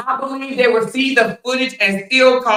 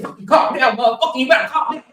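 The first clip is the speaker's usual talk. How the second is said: high-pitched, hammed-up scolding; mock angry order; 5 semitones higher, faster than usual. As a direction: act out a bossy demand, pitched up. Acts out a man demanding calm.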